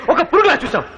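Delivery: bitter laugh. Acted. Villain mocking his victim.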